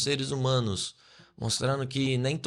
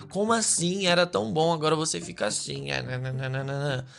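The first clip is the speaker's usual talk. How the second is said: mock complaining relatives; 2 semitones higher than usual. Family questioning someone after a toxic breakup, mock complaining. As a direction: play a lightly mocked family protest. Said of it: "as pessoas ficam".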